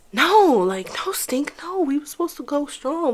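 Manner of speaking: breathy whispered no, no; hushed desperate plea; whispered pleading. Retold or imitated. Pleading with him.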